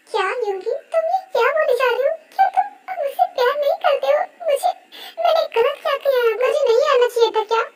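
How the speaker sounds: hurt, tearful questioning. Acted. Rose asks Yoongi if he no longer loves her, hurt. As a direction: plead as if wounded by the rejection.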